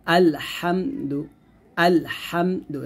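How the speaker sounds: আলহামদু slowly with a thin, light lam; light lam in recitation. Shown as a demonstration. Teacher to students, modelling a light lam in আলহামদু. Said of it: "এরকম".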